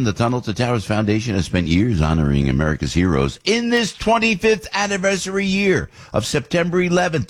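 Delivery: earnest sponsor read. Acted. Host reading the charity spot to listeners, earnest and measured.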